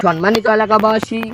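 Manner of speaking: slow formal announcement; drawn out like a loudspeaker call; through a megaphone. Acted. Mock public announcement.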